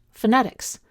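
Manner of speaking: "phonetics" as fuh-NET-ics; second-syllable stress. Shown as a demonstration. Teacher contrasts two words, stress on second syllable. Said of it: "the second syllable is stressed".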